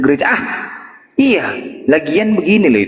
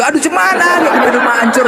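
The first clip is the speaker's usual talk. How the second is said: mock distress; 9 semitones higher than usual. Neighbour lamenting to her.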